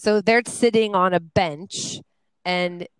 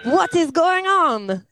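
high, slow, laughing; amused, giggly disbelief; 8 semitones higher, slower than usual. Real, not acted. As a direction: let the laugh take over the question.

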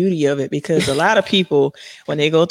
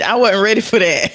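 shaky sigh; 5 semitones higher, 4 dB louder than usual. Real, not acted. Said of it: "I'm trying not to cry".

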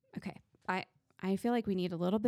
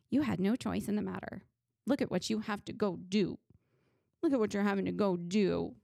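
whiny negative Nancy. Retold or imitated. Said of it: "wanting to be a little negative Nancy".

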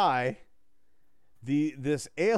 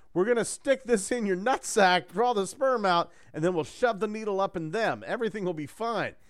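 lightly voiced alien; 5 semitones higher than usual. Voicing the bald alien.

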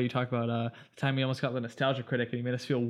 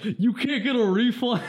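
slow, higher, louder laughing shout; mock bump shout; 7 semitones higher, 4 dB louder, slower than usual. Reading a fake con promo bump to co-hosts, mock shout. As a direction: bellow it like a parody promo. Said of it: "It just says".

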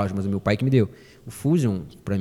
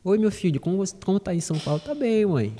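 higher, sweet mock-mom voice; imitating his mother; 5 semitones higher, 3 dB quieter than usual. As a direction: mimic a doting mother nudging her son. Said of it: "falava assim".

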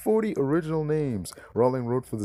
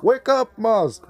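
high, loud corrected wake-up call; 12 semitones higher, 9 dB louder, slower than usual. Pretend. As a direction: holler the name up high. Correcting himself, calling out to Musk.

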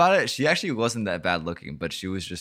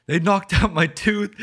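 put-on high, slow, whimpering kid voice through a laugh; crying kid; 12 semitones higher, 7 dB louder than usual. Kid complaining to the dad about his tooth, high whimper. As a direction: whine like a hurt little boy tattling. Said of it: "He's like".

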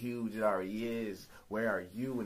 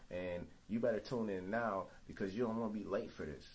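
hype man promo. Acted. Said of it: "hire you as my hype man".

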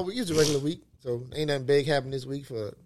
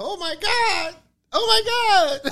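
excited disbelief; 14 semitones higher than usual. Real, not acted. Reacting in disbelief to clip.

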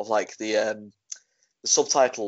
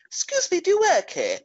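much higher, sing-song shopper voice; mimicking a shopper. A shopper asks a stranger for help, high and mocking. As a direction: put on a high, prissy customer asking for help. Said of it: "they go".

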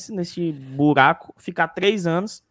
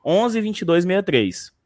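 slow, spelled out; slower than usual. Shown as a demonstration.

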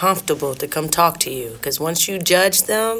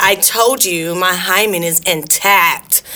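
goofy clueless sitcom voice; much slower than usual. Pretend. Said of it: "That's how I see that shit".

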